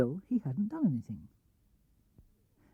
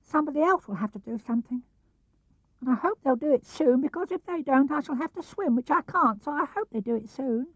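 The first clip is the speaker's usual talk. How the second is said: high, small worried piglet voice; a tiny animal fretting alone in the rain; timid high piglet; anxious Piglet; 7 semitones higher than usual. A narrator's reading. Piglet voiced in read story.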